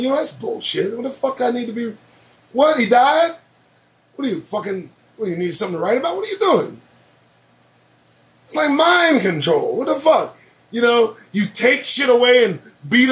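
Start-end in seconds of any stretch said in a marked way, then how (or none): 0.0-6.8 mock rebuttal. Imagined offhand rebuttal.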